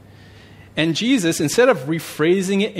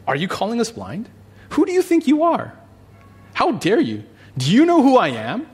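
much higher, louder indignant outburst; hammed-up fury at being insulted; outraged Pharisees; 10 semitones higher, 5 dB louder than usual. Acting furious Pharisees confronting Jesus.

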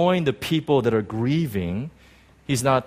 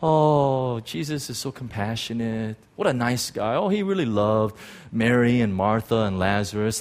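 sappy churchgoer; 3 semitones lower than usual. Retold or imitated. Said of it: "we look at that passage and we think".

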